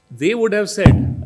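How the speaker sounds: They lifted and slowed; stress on They. Retold or imitated. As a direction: hit They, then ease off slowly. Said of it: "the emphasis here is on the word they".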